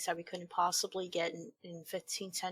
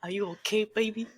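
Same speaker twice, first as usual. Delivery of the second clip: lightly voiced tender lover; a mock tender lover, a little louder; hammed-up tender voice; 3 semitones higher, 5 dB louder than usual. Rereading the line in a voice.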